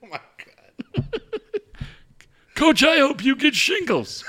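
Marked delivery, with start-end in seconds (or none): 2.5-4.2 high mock shout; old caller shouting. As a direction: yell a curse like a cranky old man.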